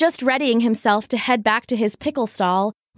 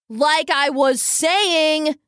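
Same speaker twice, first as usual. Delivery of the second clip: mild mock scream; 5 semitones higher, much slower than usual. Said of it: "screamed Randy".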